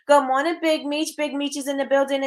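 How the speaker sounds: high lifted hello; cheery greeting. Real, not acted. Host welcoming Big Meech, excited high call. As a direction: call out the viewer's name happily.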